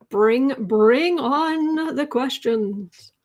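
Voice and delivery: playful invitation. Acted. Hostess inviting questions.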